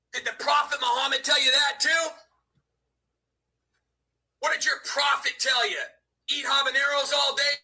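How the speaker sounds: loud taunting yell. Real, not acted. Yelling taunts at Vinny on stream. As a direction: shout the taunt at him.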